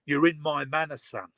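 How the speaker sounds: lightly put-on Cockney; Cockney phrase, son trailing off. Shown as a demonstration. Showing a co-host local slang, light Cockney. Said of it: "In Cockney".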